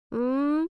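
drowsy hum; sleepy closed-mouth murmur; sleepy mumble. Acted. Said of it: "сонно промычала она".

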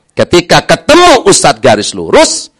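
ordinary talk, nothing marked

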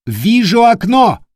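high, loud lookout shout; loud call. Acted. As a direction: call it down from the masthead. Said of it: "громко сообщил".

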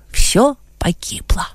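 a despairing whisper; whispered thought. A narrator's reading. Adam's inner despair as two ladies enter, whispered. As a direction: breathe it out as a private thought. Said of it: "мелькнуло в сознании Адама".

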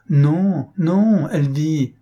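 loud, high, insistent protest; emphatic denial. A narrator's reading. Governess reassuring nephew she is alive, insistent. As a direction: contradict him urgently, high and loud. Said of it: "reprit la gouvernante".

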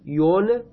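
یون said "yun", with a rounded u; damma demonstration. Shown as a demonstration. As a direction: sound out یون alone as first syllable "yun".

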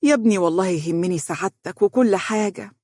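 mildly tender mother; a touch of motherly affection. Acted. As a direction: reassure your son fondly. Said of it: "وقالت بحنان".

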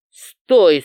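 loud barked command; sharp shout. A narrator's reading. Valet shouts at the girl to stop her leaving. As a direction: bark it to stop her cold.

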